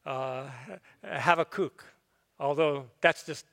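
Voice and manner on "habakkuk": "Habakkuk" as hah-vah-KOOK; Hebrew-style pronunciation. Shown as a demonstration. Preacher repeating his daughter's right way, end-stressed. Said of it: "she said it the right way".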